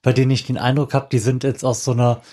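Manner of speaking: normal talking voice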